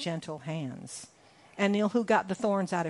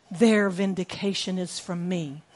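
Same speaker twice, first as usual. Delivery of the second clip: calm voice of God. Acted. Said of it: "And God says".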